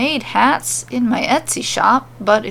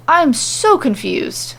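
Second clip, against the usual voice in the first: higher, slower, near tears; voice cracking; 5 semitones higher, slower than usual. Acted. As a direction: let the voice crack as if about to cry. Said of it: "his voice cracking".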